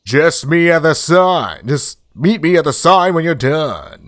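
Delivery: lightly voiced, drawn-out cartoon friend; lightly hammed-up, drawling pal; game character. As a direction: stretch the key words as the character.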